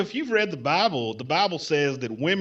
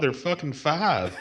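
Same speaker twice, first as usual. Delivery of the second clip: laughing; 5 dB quieter, slower than usual. Acted. Caller cracks up mid-retort.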